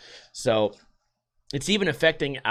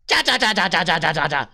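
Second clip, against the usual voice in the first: comic rattled chant. Acted. Podcaster breaks up his news reading, comic falling chatter. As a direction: rattle it off, sliding down in pitch.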